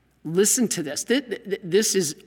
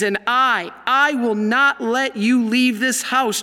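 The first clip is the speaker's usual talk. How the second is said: exclaimed; 4 semitones higher, slower than usual. Retold or imitated. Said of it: "she put an exclamation point".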